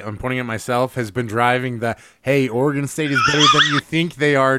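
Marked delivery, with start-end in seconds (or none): 2.2-4.6 talking through a laugh. Real, not acted. Host mocking his own Oregon State hype, laughing. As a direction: laugh at yourself while quoting your own line. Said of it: "I'm laughing because this guy".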